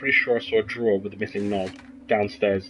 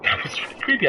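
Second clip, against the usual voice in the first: whispering; 11 semitones higher than usual. Real, not acted. After scare, whispers.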